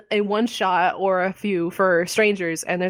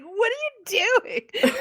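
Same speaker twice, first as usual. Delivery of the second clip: mocking kid voice; slower than usual. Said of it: "he's always like".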